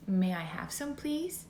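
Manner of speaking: sweet, polite little request rising at the end; polite child asking. Shown as a demonstration. A parent showing a child how to ask nicely, gently polite. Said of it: "your family member and say".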